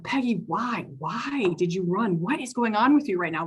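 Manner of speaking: frustrated, near tears, asking her why; exasperated teacher pleading with the student. Retold or imitated. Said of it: "I'm just so frustrated".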